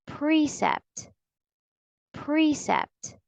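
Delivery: precept as PREE-sept, high on the first syllable; long E model. Shown as a demonstration. Teacher has learners say it along, long E model. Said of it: "Say it with me".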